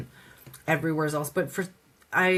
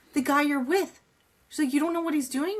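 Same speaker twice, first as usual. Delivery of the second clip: raised, incredulous friend voice; voicing the roommate; 10 semitones higher than usual. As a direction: quote the roommate high and disbelieving. Roommate voiced warning her.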